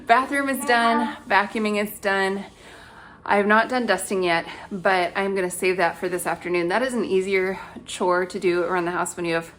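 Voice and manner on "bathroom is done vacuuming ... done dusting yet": shallow breathing. Real, not acted. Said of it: "I'm out of breath".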